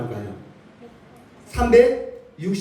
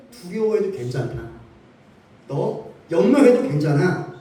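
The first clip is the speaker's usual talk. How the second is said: comforting words. Pretend. Preacher voicing God comforting the anxious, gently reassuring. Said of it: "위로의 말씀이라는 거예요".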